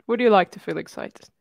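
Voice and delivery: low seductive voice, laughing through it; a put-on sultry tone; deep sexy voice. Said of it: "You're putting on your deep, sexy voice now".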